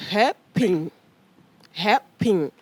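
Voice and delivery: "He ping" said as huh-ping, stress on "He"; Chinese word demo. Shown as a demonstration. Guest showing the audience the word for peace, "He ping". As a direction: say "He ping" twice with weight on "He". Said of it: "identique au mot paix".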